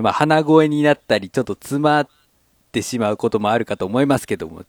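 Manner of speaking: stuffy nose from a cold; nasal voice. Real, not acted. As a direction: talk with a blocked nose. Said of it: "ちょっと風邪気味でございます".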